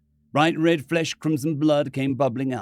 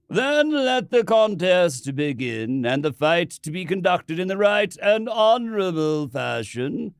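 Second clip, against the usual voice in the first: solemn priest; 5 semitones higher, 3 dB louder than usual. Acted. Priest concludes, slow.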